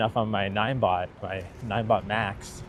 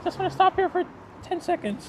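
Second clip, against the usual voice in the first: mock shout. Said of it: "I couldn't shout at you to be like".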